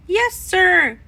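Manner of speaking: loud, high eager yes sir; a proud papa bursting with eagerness; eager exclamation. A narrator's reading. Papa eager about ghost walk.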